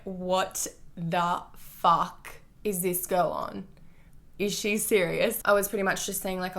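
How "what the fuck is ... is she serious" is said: very slow, drawn-out mock bafflement; imagined disbelief. Voicing her ex's stunned face, slow mock disbelief. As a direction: stretch it out like he can't believe it. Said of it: "his face was like".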